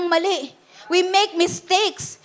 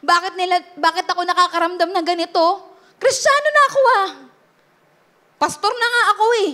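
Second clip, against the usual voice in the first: retold anguished questions; 4 semitones higher than usual. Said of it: "Nagtatanong ko sa kanya".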